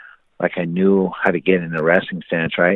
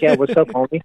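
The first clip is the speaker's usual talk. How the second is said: cocky taunt; 6 semitones higher than usual. Retold or imitated. Acts out taunting his opponent.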